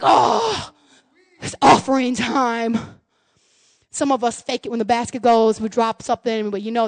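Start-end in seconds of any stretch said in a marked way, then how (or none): 0.0-2.8 lower, slow, dragging sigh of duty; reluctant groan. Pretend. Churchgoer dreading the offering, slow and low. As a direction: drag it out like giving hurts. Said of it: "we're like".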